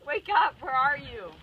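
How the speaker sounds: high, loud, slow mock yell; frantic shout. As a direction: shout him awake from the storm. Disciples shouting to wake Jesus.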